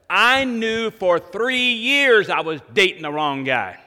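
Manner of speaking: tearful confession. Retold or imitated. Retold sister's tearful confession.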